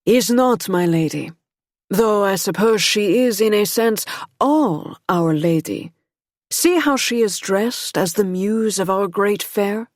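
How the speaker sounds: put-on a lightly French-accented gentleman, growing stronger. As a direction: let the French accent deepen as he goes. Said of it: "in a French accent that deepened as he spoke".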